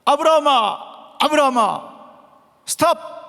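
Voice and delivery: high, urgent shout from heaven; loud, high-pitched calling. Acted. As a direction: cry out to stop someone in the act. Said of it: "소리쳐서 부르는 걸 말하는 거예요".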